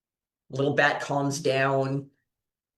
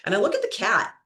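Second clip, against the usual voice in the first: normal talking voice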